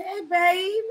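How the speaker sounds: lightly imitated little twang; granddaddy's twang. Imitating her funny granddaddy, a little twang. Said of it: "it's like a little twang guy".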